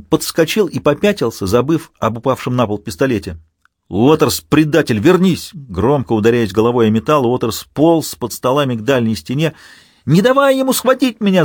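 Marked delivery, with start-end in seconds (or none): 3.9-5.5 higher and louder angry yell; angry shout. Acted. Garcia yells after fleeing Waters. 10.1-11.4 high, loud screaming in terror; terrified scream. Acted. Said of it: "завопил он".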